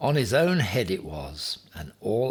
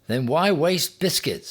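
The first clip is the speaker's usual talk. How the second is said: higher, louder, disbelieving Noah; incredulous; 8 semitones higher, 4 dB louder than usual. Acted. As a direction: toss the question up in disbelief. Noah questions Ham.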